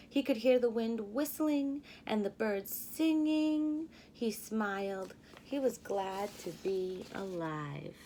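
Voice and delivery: lively storybook narration; teacher reading a picture book to her class; reading to children. A narrator's reading. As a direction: read it like storytime for little kids.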